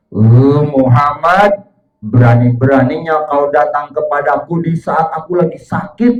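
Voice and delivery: tegur keras dan geram; marah geram. Acted. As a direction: kemarahan orang sakit yang geram. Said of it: "dia geram, dia marah". (suara marah dan geram)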